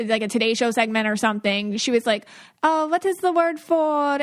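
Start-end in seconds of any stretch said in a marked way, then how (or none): 2.6-4.2 higher-pitched pretend word-search; mock word-forgetting. Podcaster mimicking a woman faking forgetfulness, mock puzzled. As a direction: imitate someone feigning a lost English word. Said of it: "she pretended to forget the English word".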